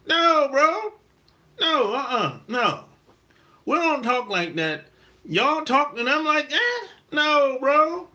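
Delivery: high-pitched, emphatic objection; indignant refusal. Retold or imitated. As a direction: shut it down in mock disbelief. Scolding his cousin about the slang.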